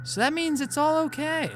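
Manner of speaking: a hint of a broken yandere girl; Yuri, lightly voiced. Voices Yuri reading dialogue.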